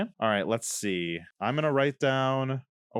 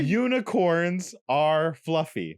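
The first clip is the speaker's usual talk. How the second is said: slow, exaggerated mouthing; over enunciating; slower than usual. Shown as a demonstration. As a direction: mouth every syllable big and slow. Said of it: "I'll do it like this".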